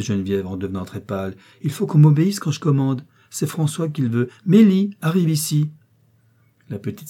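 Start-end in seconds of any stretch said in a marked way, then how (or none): 1.6-5.7 raised, louder voice of authority; imperious command. A narrator's reading. Young mistress ordering the maid down, imperious. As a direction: demand obedience, high and forceful.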